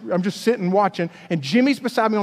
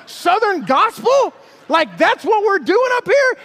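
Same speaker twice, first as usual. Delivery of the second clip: mock incredulity; 5 semitones higher than usual. Incredulous questioning of Jimmy.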